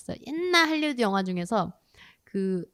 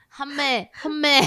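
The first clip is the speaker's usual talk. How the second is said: put-on Korean American accent; 5 semitones higher, 4 dB louder, much slower than usual. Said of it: "맨날 이러잖아".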